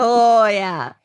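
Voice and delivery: drawn-out Midwest "oh, yeah"; Midwestern dialect. Shown as a demonstration. Co-host echoing the tonal Midwest dialect, Midwestern accent. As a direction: Midwestern vowels on a long falling "oh".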